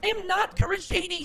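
put-on loud girl voice. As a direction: yell the denial in a high girl voice. Shouting denial in girl voice.

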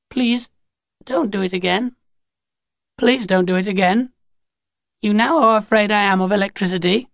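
high, measured alien plea; pleading Grinny. A narrator's reading. Grinny begs after being torn, high measured pleading.

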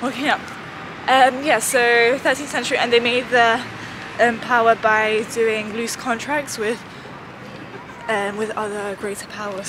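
winded from climbing stairs; out of breath. Real, not acted. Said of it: "you're already out of breath".

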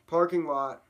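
big punchy exclamation; exclaimed echo. Acted. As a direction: belt it out like a cheering crowd. Crowd echo in town song.

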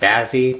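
"Bazzy" with the short a of "jazz"; alternative pronunciation. Shown as a demonstration. Lockpicker guessing at the lock's name, unsure pronunciation. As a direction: say "Bazzy" to rhyme with snazzy. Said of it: "don't know how you pronounce it".

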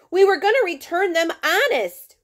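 put-on boy half-crying his apology to the officer; mild crying plea. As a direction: plead like a kid about to cry, lightly acted. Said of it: "Ralphie cried".

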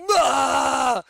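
high loud startled cry; jolted awake, yelling. Retold or imitated. Waking naked at the mirror, startled yell. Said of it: "And I was like".

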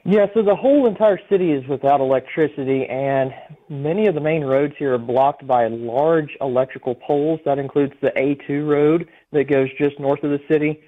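over a phone line; speaking down a phone line. Real, not acted. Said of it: "we have you on the phone".

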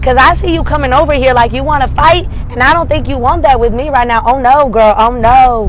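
loud, sassy, warning her off; girl, don't you dare, full of attitude; sassy black girl voice. Pretend. Friend squaring up to a rival, loud sassy warning. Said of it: "this is a black girl voice".

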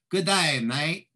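bad Australian accent. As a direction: try a clumsy Australian accent, half-joking. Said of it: "I can't do Australian. I could try".

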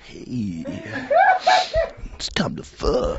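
breathy whispered come-on; seductive voice. Shown as a demonstration. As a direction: whisper a sultry hello. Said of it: "my fuck voice".

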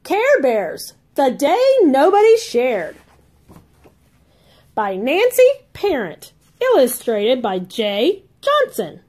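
lively storybook read-aloud for little ones; reading to children. A narrator's reading. Aunt reading a Care Bears book to kids, bright and lively. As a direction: read it like a bedtime picture book.

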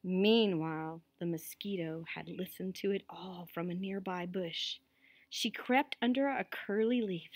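measured storytelling, slightly lifted; story narration. A narrator's reading. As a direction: read it out to listening children. Reads a story aloud.

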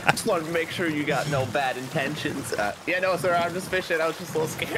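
lightly high fake-polite voice; sweet innocent talk to the pirate; put-on friendly voice. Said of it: "Are pirates that dumb?".

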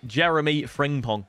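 slow, smooth savouring of Jeremy Frimpong; savoured name. Shown as a demonstration. Gamer showing how the name rolls off the tongue. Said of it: "Everyone just say".

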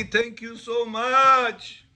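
slow, drawn-out grateful thank you; a man gushing thanks at his rabbi. Retold or imitated. Student thanking the rabbi, slow drawn-out gratitude. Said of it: "He blessed me".

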